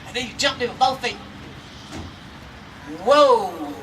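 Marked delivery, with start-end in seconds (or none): 3.0-3.7 sudden loud whoa as the trap springs; startled whoa. Acted. Storyteller to listeners as the snare jerks, startled loud whoa. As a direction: gasp it out in surprise.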